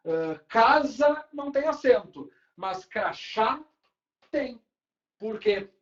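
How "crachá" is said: "crachá" slowed, weight on the last "chá"; final-syllable stress. Shown as a demonstration. Teacher contrasting it with casa, "crachá" slow with final stress. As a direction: land firmly on the "chá" of "crachá". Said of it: "a sílaba tônica for a última".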